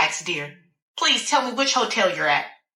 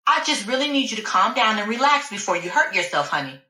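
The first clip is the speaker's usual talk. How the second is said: pleading doctor; 3 semitones higher than usual. Acted. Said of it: "She kept pleading with me".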